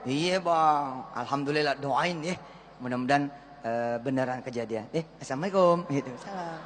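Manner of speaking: mock housewife. Housewife soft humble.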